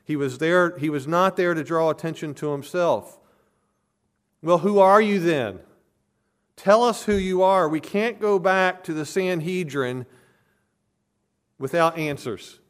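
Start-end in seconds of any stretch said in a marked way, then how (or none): 4.4-12.6 loud, higher-pitched insistent demand; impatient delegation shouting at John; demanding officials. Retold or imitated. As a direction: press him hard for an answer, voice raised.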